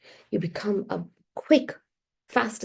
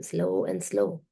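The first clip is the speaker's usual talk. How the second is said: slow sluggish demo; 4 dB quieter, slower than usual. Shown as a demonstration. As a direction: drag the words out slowly. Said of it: "This is the vibration".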